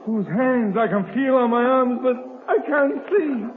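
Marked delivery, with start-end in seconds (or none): 2.0-3.5 a dazed laugh through the words; half-laughing, half-lost; bitter laugh. Acted. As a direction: laugh at your own helplessness. Wounded man rambles, half-delirious.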